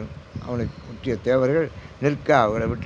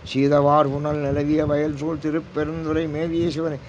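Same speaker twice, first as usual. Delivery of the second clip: measured devotional chanting of the verse; verse recitation. Acted. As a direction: intone the hymn line steadily. (பக்திப் பாடல் ஓதுதல்)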